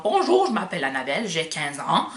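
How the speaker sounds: imitating her thick Îles-de-la-Madeleine accent at fifteen; lightly mock her younger self's Madelinot accent; old Madelinot accent. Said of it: "un de ces accents".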